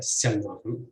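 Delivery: "selnahum" with stress on its second syllable. Shown as a demonstration. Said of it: "with stress on the second syllable".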